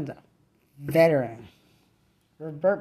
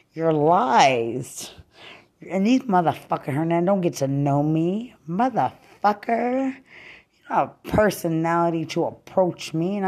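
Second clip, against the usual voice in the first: angry; 3 semitones higher, 3 dB louder than usual. Real, not acted. Yelling insults at target.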